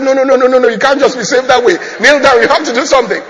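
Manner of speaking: loud, high, rapid-fire refusal; forceful objection. Retold or imitated. Pastor orders the man to kneel down, forceful objection. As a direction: overrule him as the acted pastor.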